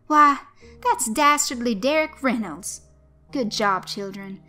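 hammed-up gasp of surprise, loud and high; mock shock. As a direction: play the shock big for the kids. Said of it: "pretended to be shocked".

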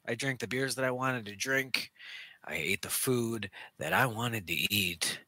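intense wrestler promo delivery; wrestling promo. Acted. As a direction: cut a promo, building up. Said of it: "I'm cutting a promo on my good time".

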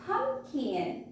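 Pumpkin lifted high at the start, puffed p; stressed p sound. Shown as a demonstration. Teacher checking children hear p, stressed p sound. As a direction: make the first p of "Pumpkin" stand out. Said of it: "Do you hear the p sound?".

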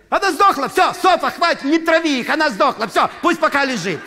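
a hotel clerk yelling at a coworker; shrill administrator. Retold or imitated. Administrator shouting at Sofa down the hall, high loud voice.

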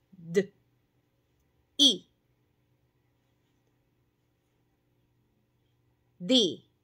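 "D", "I" y luego "Di"; añadir fonema. Shown as a demonstration. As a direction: juntar sonidos. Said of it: "siguiente es". (fonemas unidos en sílaba)

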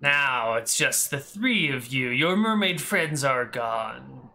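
slow, menacing voice from the darkness; a lurking shadow taunting its prey slowly; dark whisper behind you. Acted. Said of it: "a cackling voice from the darkness".

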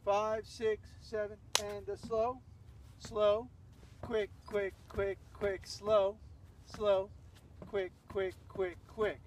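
rhythmic instructor's count, punching each slow; steady beat with long slows and short quicks; dance count-in. Shown as a demonstration. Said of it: "Putting it all together".

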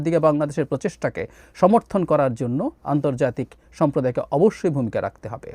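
formal read-aloud of a translated UN statement; measured formal statement reading. Acted. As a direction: read it out steadily like an official text. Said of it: "আমি একটু যদি পড়ি".

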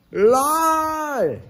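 squeaky high LOL; high squeal. Real, not acted.

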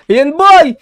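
loud, high, drawn-out cheer; celebrating the pig at last; slow triumphant shout; excited. Real, not acted. Pig finally spawned.

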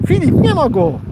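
loud call across the water. Real, not acted. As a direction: call out to Filip. Calling out to friend.

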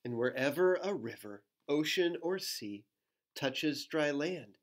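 lilting storybook read-aloud; reading to children. Acted. Reading a rhyming book to children, lilting. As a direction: read the rhyme to little ones.

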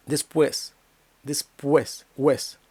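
Después with stress on gliding ues; stressed diphthong. Shown as a demonstration. Teacher points out stressed syllable, diphthong whole. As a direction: glide u into stressed e in Después, then isolate уес. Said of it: "І наголошений склад".

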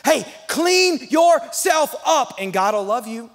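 hammed-up moralizing; mock preachy condition. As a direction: nag like a self-righteous churchgoer. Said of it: "what we like to say sometimes".

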